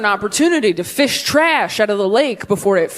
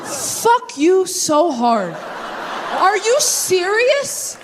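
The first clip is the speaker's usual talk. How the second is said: slow, stretched words through laughter; can't believe it, laughing; laughing disbelief; 7 semitones higher, much slower than usual. Real, not acted. Disbelief at picnic sex talk.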